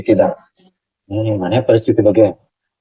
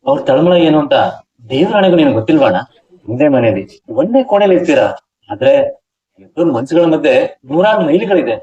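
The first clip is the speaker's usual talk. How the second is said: reproachful, poetic speech lifting higher in the middle; impassioned speech; 5 semitones higher than usual. Acted. Younger man confronting his brother about his troubled wife, impassioned speech. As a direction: lecture him earnestly, pitch rising on the big lines. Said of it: "ಈ ಭಾಷಣ ಎಲ್ಲ".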